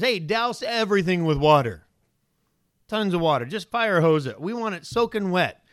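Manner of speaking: bold command. Retold or imitated. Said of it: "Elijah says".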